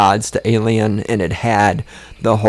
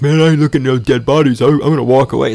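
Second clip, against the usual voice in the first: fast, louder, scared geologist voice; mock freaked-out geologist; 3 semitones higher, 4 dB louder, faster than usual. Mocking the geologist who freaks out, fast and loud. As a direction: blurt it like a spooked tough guy. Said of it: "freaks out and goes".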